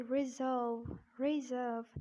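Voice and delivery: British "reserve", 'ri-zuhv' with silent R; British accent. Shown as a demonstration. Teacher presenting "reserve" to learners, British accent. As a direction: drop the R before V in "reserve", British style. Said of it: "keeping this R silent in British accent".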